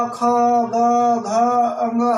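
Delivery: खा, गा slow and clearly voiced from the throat; throat consonant drill. Shown as a demonstration. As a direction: sound each consonant deliberately. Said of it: "बोल के देखेंगे तो".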